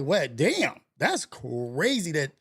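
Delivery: mock shock that dissolves into a laugh; laughing disbelief. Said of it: "That's where I'm like".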